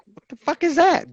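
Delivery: sudden high pitched what the fuck; retold shock. Telling a friend about first seeing the pipe, mock shocked.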